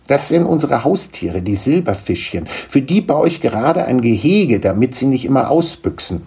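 a touch of a proud little gnome; lightly voiced gnome father. Gnome introducing his children to Niklas, lightly voiced.

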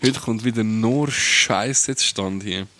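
slow, dragged-out complaint; slow drawn out. Shown as a demonstration. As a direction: draw it out slowly. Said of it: "restarted line".

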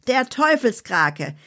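high, dramatic spooky storytelling voice; Annabella's scary tale. Acted. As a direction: relish the horror in a high voice, slowing at the end. Annabella's character voice.

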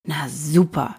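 lightly sulky mutter. Acted. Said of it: "schmollte Hosenmann".

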